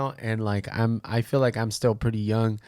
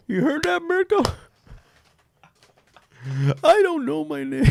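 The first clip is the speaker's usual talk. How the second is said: laughing; 5 dB louder than usual. Real, not acted. Laughing at misnamed guest.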